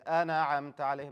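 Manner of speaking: quick أنعمت عليهم with a bounce on the noon; bounced noon. Shown as a demonstration. Teacher imitates a common mistake, bouncing the ن in أنعمت. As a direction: let the ن in أنعمت pop loose. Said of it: "Don't bounce the noon".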